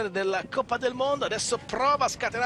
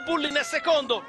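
breathless italian goal commentary; 4 semitones higher than usual. Real, not acted. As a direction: call the overtake as it happens. Live race climax, overtaking, crash. (telecronaca concitata e senza fiato)

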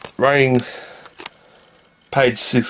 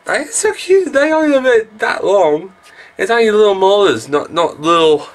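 gushing squeal; 12 semitones higher than usual. Real, not acted. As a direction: melt over something adorable. Gushing over tiny baby lizards.

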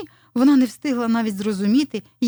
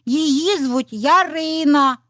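high, loud and drawn-out chick voice; high little-chick announcement; clucking chicks; 7 semitones higher, 5 dB louder, much slower than usual. A narrator's reading. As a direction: chirp it out slowly like excited chicks. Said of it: "закокотали курчата".

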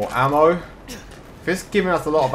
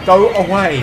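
yelling go away; 7 semitones higher, 8 dB louder, slower than usual. Real, not acted. Yelling at attacker.

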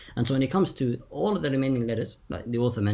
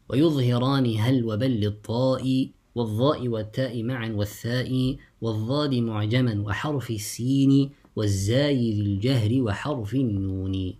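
measured, lilting recital of a teaching poem; verse recitation. Shown as a demonstration. Teacher recites the author's verse to students, measured delivery. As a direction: recite the verse with lengthened vowels.

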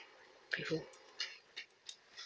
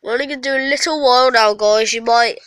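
sick voice; 5 dB louder, faster than usual. Real, not acted. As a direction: voice rough with a cold. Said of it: "my voice is a bit different 'cause I'm ill".

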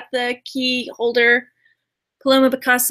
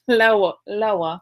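pitched down low, playfully; lower voice; 4 semitones lower than usual. Shown as a demonstration. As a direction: drop the voice lower. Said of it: "we're not too low 'cause we are married ladies".

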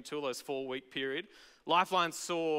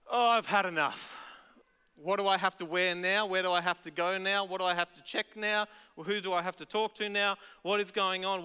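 exasperated rant; 2 semitones higher than usual. Acted. Acts out fed-up news reader.

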